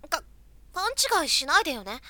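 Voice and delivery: flustered tsundere denial, stammering start. Acted. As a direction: deny it, embarrassed but proud.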